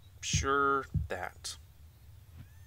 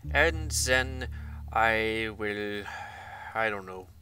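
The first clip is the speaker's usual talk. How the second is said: hammed-up German accent, lively rises and falls; mock German accent. Gamer announcing his world plan, in a mock German accent. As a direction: put on a playful fake German accent. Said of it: "partly German".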